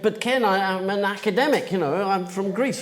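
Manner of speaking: reluctant academic making excuses; protesting. Retold or imitated. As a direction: plead your way out of the job. Reluctant Greek actress protesting to director.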